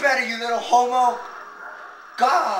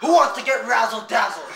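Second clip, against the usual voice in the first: dad voice; 4 dB louder than usual. Acted. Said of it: "You sound exactly like your dad".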